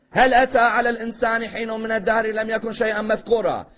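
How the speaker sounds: steady, level-pitched Arabic recitation; flowing verses held on one even tone; Quran recitation. Shown as a demonstration. Preacher recites to show listeners how it seems to rhyme, Quran recitation.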